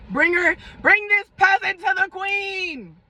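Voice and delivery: slow, grand mock royal command; haughty queen. Mock queen ordering the cousin brought in, slow and grand. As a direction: summon the peasant like a queen. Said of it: "So I'm like".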